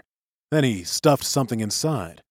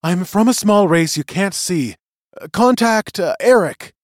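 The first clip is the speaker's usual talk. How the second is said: high, raised tiny captive voice; shrill voice; 8 semitones higher, 6 dB louder than usual. A narrator's reading. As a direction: pipe up, faltering at the contact's name. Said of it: "he heard".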